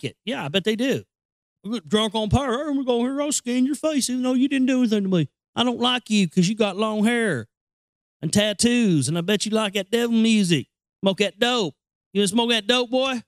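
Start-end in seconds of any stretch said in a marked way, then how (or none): 1.6-13.2 mock redneck cop.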